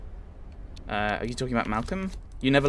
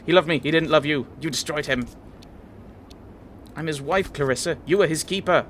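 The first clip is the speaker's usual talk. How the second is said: heated accusation; 4 semitones higher than usual. Acted. Voiced quarrel between two women.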